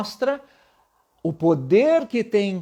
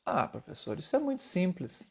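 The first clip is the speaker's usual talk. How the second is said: mock student; 9 dB quieter than usual. Imagined student objection.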